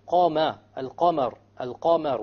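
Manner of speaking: "Qamar" with a heavy, back Qaf and lighter Mim vowel; thick "Qa" in "Qamar". Shown as a demonstration. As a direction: darken the first vowel of "Qamar", keep the second light. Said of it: "there's a difference between the Fatha".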